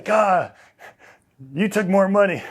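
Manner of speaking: retold accusation. Retold coach accuses him of chasing money, mock angry. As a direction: hurl the accusation.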